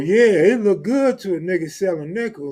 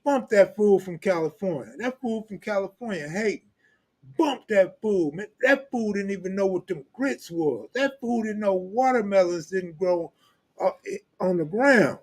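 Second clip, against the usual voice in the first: higher, lightly voiced Southern dudes dismissing him; higher imitation of Alabama dudes; mock Alabama accent; 5 semitones higher than usual. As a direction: imitate Alabama guys trashing a Californian. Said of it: "be like".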